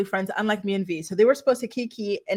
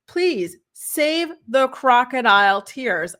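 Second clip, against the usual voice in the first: slow, scornful dismissal; 2 semitones higher, 3 dB louder, much slower than usual. Real, not acted. Commentator scolding Kale.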